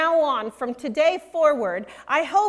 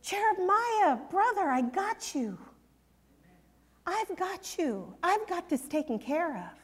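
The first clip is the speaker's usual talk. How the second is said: casual slang paraphrase; 3 semitones higher, 8 dB quieter than usual. Retold or imitated. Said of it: "in good old English slang".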